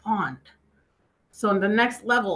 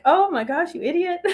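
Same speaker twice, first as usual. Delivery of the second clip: imitating crazy laughing; 9 semitones higher than usual. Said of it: "crazy laughing for a second".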